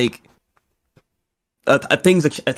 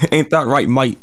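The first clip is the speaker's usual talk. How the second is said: casual, badly faked Australian accent; terrible Australian accent. Shown as a demonstration. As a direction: put on a bad Aussie accent. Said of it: "That's my terrible Australian accent".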